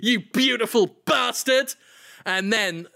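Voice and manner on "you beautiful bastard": throttling elation. Pretend. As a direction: gleefully play at throttling your friend. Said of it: "starts throttling me and says".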